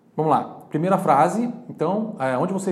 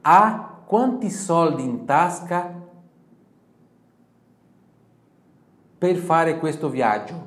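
slow, louder, word by word; slow model phrase; 3 semitones higher, 6 dB louder, much slower than usual. Shown as a demonstration. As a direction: model the full question once more. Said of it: "Vamos repetir mais uma vez".

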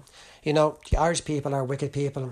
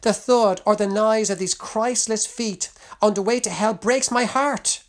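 higher, louder anguished plea; heartbroken cry; 6 semitones higher, 5 dB louder, slower than usual. Acted. Young Willie tells mother the lost break his heart, anguished. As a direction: let the heartbreak lift the voice. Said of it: "he cried".

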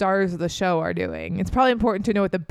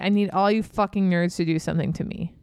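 bossy rallying order. Retold or imitated. Abby ordering nerds to chase.

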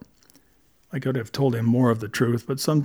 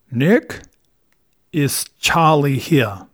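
slow, muffled phone greeting; mouth full of socks; 3 dB louder, much slower than usual. A narrator's reading. Charlie calling Nick back, mouth stuffed full. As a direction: talk through a mouthful of cloth. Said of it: "talking with his mouth full of dirty socks".

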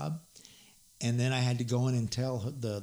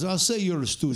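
put-on Arab accent; 4 semitones higher, 5 dB louder than usual. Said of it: "I give him more of an Arab accent".

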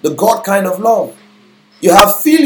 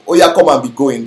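word-for-word Yoruba-style English; 4 semitones lower than usual. Retold or imitated. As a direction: mimic a literal Yoruba-to-English phrasing. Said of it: "you get English like".

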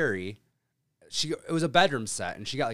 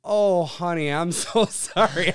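drawn-out, higher mock-sympathetic voice; retold sympathy; 5 semitones higher, 7 dB louder, slower than usual. Caretaker to lost delivery driver, gushing sympathy. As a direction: gush the apology, slowing on the sorry.

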